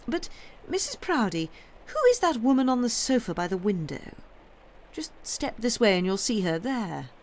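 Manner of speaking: curious countess. Acted. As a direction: ask urgently who the woman is.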